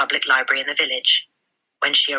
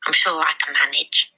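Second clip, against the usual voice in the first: put-on calm, confident child's voice; self-assured little girl. Matilda tells the librarian she can manage, confident and polite. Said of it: "Matilda said".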